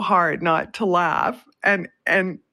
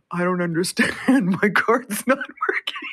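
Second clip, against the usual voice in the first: quoting the friend's confusion while breaking into laughter; quoting through laughter; 2 semitones higher than usual. Retold or imitated. Retelling the friend's baffled words to listeners, laughing through it. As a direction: try to repeat his line but the giggles take over. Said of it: "just went".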